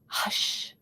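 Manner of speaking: unvoiced hush like an old lady; whispered hush. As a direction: hush a child to sleep. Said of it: "a little old lady whispering".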